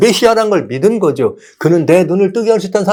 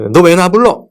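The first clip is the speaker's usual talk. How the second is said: louder, higher irritated retort; mock rude reply; 5 semitones higher, 6 dB louder than usual. Jesus as he did NOT answer, in a mock annoyed retort. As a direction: snap back as if bothered. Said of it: "이렇게 안 하시고".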